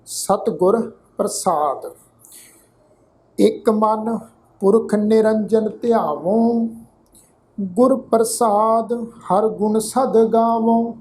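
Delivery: slow, drawn-out sacred reading; scripture recitation. Shown as a demonstration. Teacher models the scripture reading for the congregation, slow recitation. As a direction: recite it slowly, holding the long vowels.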